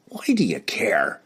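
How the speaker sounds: hushed, rasping question; growled whisper. Acted. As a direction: hiss it under the breath. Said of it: "he growled".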